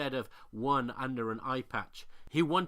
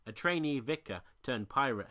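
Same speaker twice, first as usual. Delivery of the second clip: ordinary delivery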